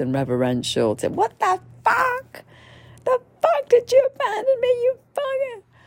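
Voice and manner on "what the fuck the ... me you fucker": very high, pitched-way-up, acted-out screaming. Retelling what a woman screamed at the medicine during a ceremony: imitating a woman screaming. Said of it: "She's screaming at the medicine".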